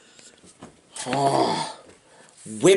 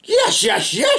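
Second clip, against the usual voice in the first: crowd shouting; 12 semitones higher, slower than usual. A narrator's reading. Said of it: "shouted all the people".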